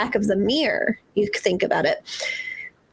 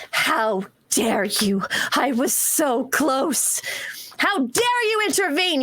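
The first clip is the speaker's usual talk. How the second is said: slow, then climbing much higher in rage; outraged spirit; 4 semitones higher, slower than usual. Acted. The thwarted voice rages at the intruder, slow then much higher. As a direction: build from slow menace to a high outraged cry.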